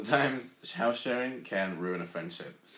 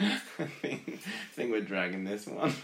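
laughing; 3 semitones higher than usual. Real, not acted. Laughing at silly advice.

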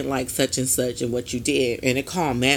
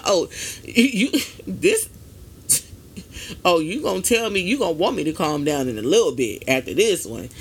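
mock heated comeback; 3 semitones higher than usual. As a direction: talk back like you're about to lose it, half-joking. Imagined heated comeback to "calm down.

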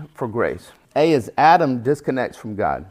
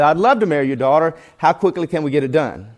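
quick, louder, hurried agreement; suddenly eager; 4 semitones higher, 4 dB louder, faster than usual. Retold or imitated. Suitor at gunpoint to the father, hastily eager. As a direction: blurt out an eager yes.

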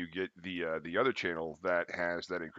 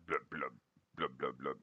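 bubbly fish blub; 5 semitones lower, 6 dB quieter than usual. Pretend. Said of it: "looking up at you like".

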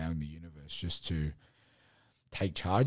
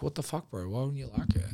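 higher-pitched mock outrage at a mate; indignant ego; 6 semitones higher than usual. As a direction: ego gets petty and offended. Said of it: "your ego just turns around and goes".

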